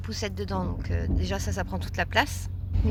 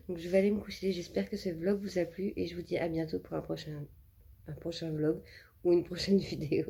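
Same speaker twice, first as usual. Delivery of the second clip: exhausted; 3 semitones lower, 5 dB quieter than usual. Real, not acted. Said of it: "je suis fatiguée".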